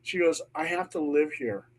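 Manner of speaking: soft, hushed plea; quiet pleading. Retold or imitated. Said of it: "she looks at me and she goes".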